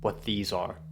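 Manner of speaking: very calm. Acted. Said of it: "she's gonna say very calmly".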